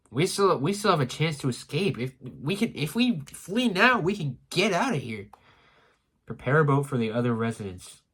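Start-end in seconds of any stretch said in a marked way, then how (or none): 0.1-5.3 higher-pitched, pressing plea to flee; urgent plea. Acted. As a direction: plead urgently to get away. Acting anxious plea to flee.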